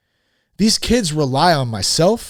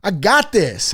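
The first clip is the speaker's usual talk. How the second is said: a hint of a swaggering grown man; half-done tough-guy voice, self-mocking; mock proud man voice; 4 semitones higher, 4 dB louder than usual. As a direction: puff up like a man who needs no help. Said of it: "I didn't know what voice I was doing there".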